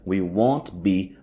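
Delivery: said very slowly, word by word; slow model reading. Shown as a demonstration. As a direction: spell it out slowly for students. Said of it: "teacher models the phrase".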